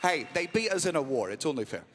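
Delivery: ordinary delivery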